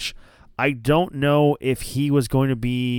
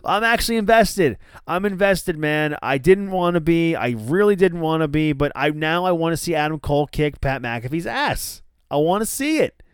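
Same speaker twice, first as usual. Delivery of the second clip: excited disbelief; 5 semitones higher than usual. Retold or imitated. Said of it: "I'm like".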